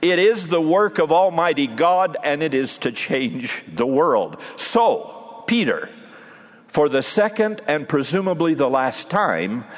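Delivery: a hint of a pleading master, building in fervour; gently rebuke, then rally him to the task; a teacher urging his disciple on the shore, building to a plea; lightly voiced Jesus, earnest. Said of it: "Jesus responded, perhaps saying something like".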